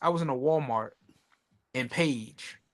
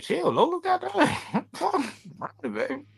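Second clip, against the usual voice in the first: mock Lola; 11 semitones higher than usual. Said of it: "I'm like".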